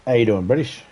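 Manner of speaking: loud friendly hello across the map; loud greeting. Real, not acted. Greeting another player loudly.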